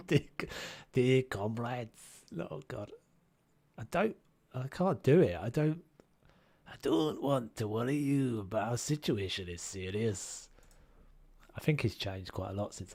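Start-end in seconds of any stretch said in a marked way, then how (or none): 0.9-2.0 slow, put-on Scottish accent. Gamer retrying the greeting, shaky attempt at Scottish accent. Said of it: "gotta get my Scot tuned". 6.7-10.5 put-on Scottish accent; earnest speech in a rough Scottish accent. Character warning comrades of trouble, in mock Scottish accent. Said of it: "I've gotta get my Scot tuned".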